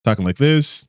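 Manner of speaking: a notch up, natural voice. Shown as a demonstration. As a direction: lift the pitch slightly, stay natural. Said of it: "still my, within my natural voice".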